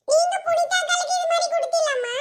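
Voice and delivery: hushed whispered question to mother. Acted. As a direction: whisper it so others can't hear. Girl secretly asks mother. (அம்மாவிடம் ரகசியமாக கேட்கும் கிசுகிசுப்பு)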